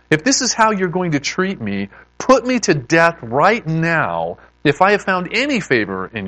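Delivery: worn-out, aggrieved complaint read aloud; frustrated outpouring. Acted. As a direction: plead your case to God in exasperation. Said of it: "this guy's pouring out some anger and frustration".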